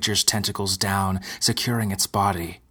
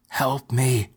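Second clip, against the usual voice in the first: wailing; 4 semitones higher than usual. Acted. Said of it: "she wailed".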